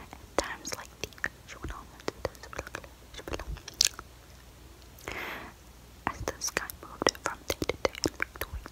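hushed bedtime story whisper; whispered story reading. Acted.

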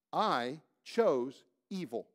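slow, deliberate I chose evil; plain slow confession. Shown as a demonstration. Preacher shows congregation the honest confession, slow. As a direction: own it word by word. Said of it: "Here's what we need to say".

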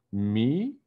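high, rising little squeak; squeaked question. A narrator's reading. Toby is told to break the news, squeaked question. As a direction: squeak it in startled disbelief, climbing sharply. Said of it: "Toby squeaked".

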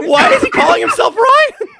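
high, loud laughing words; laughing hard. Real, not acted. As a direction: crack up mid-sentence. Cracking up at the clip.

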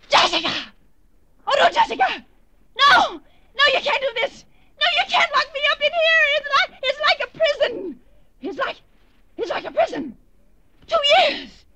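screaming through sobs; panicked cries, trapped and desperate; hysterical screaming. Acted. Locked in attic, hysterical.

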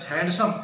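हैंडसम split as hand and some; pronunciation demo. Shown as a demonstration. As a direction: read हैंडसम in two parts, d sounded. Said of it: "ऐसे पढ़ा जाता है". (हैंडसम को दो हिस्सों में पढ़ना)

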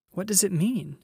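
high, urgent questioning; upset cry. A narrator's reading. Susan finding Aslan gone, upset high-pitched cry. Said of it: "cried Susan".

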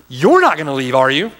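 firm challenge, dropping into the tag; challenging. Acted. Jesus challenging disciples as others leave, challenging. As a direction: put them on the spot. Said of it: "the challenge to his disciples".

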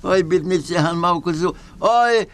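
high, sing-song peddler voice; comic Gypsy trader. Acted. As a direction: hawk the goat like a trickster. Comic Gypsy goat seller character.

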